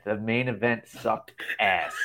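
slow, deliberate read-out of a viewer's comment, amused; all caps. Retold or imitated. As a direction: space out the verdict word by word, laugh brimming. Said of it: "All caps".

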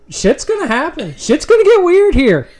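high, loud hyped promo voice; Paul Heyman voice. Acted. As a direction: sell it like a wrestling manager. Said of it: "I did the Paul Heyman voice".

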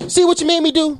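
hammed-up told-you-so; mock scold. Mock-scolding the caller, hung up.

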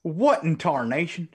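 put-on high, slow old prospector exclamation. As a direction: stretch it out like a crusty gold miner. Old-timey exclamation at friend.

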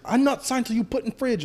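high-pitched broken-English refusal; mock owner refusal. Owner refusing to sign, high mock accent. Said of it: "she's like".

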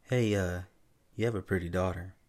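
hesitant, everyday approach to a parent; awkward compliment. Shown as a demonstration. Showing how someone might approach a parent, casually. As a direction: offer it casually, with a small stumble. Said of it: "some people could come up to you and be like".

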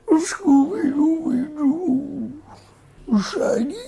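high, slow cartoon dog voice; Scooby-Doo howl. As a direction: draw it out like the dog.

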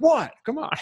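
high, loud, laughing "who cares" protest; mock indignant protest. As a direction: act out a coach brushing it off loudly. Acted coach brushing off a complaint.

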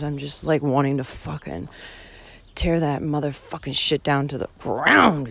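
fed-up rant with sudden punched words; worked-up venting. Real, not acted. Hiker venting about ignorance and mind games, worked-up. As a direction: vent it, leaning hard on key words. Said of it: "just heard me yell".

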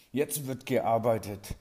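slow, irritated command. Acted. Teacher snaps at the class to get to work, irritated. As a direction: clip each word with annoyance. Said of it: "sage ich gereizt".

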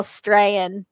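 Australian squashed down into STRAYAN; STRAYAN, first syllable of Australian dropped; Aussie Strayan. Shown as a demonstration. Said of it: "what they call Strayan".

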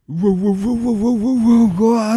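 loud, high, fast uwa-uwa flustered babbling; retold panicked babble. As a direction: flap about in mock panic, stammering uwa. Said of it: "ってなっちゃって".

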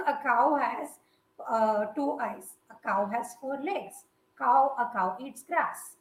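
slow, halting recital with a hint of a little kid; lightly mocked schoolkid essay. Co-host mocking a kid's English essay on cows, lightly childlike recital. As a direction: lightly imitate a child plodding through simple sentences. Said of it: "you are a little kid writing".

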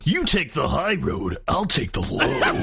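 slow, put-on Scottish lilt, laughing at the end; playful fake Scottish recital; mock Scottish. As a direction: ham up an old Scottish ballad line, slowly. Quoting Scottish song, mock accent.

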